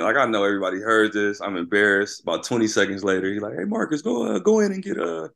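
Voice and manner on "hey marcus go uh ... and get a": much higher, teasing coach voice; a hammed-up coach pressing for an answer; imitating the coach. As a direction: mimic the coach needling him.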